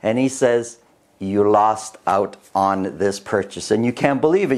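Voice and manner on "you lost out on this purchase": grim news. Retold or imitated. Agent delivers bad news.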